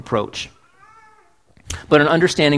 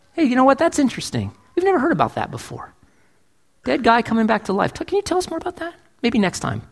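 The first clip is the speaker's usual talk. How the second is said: mock airheaded listener; 4 semitones higher, faster than usual.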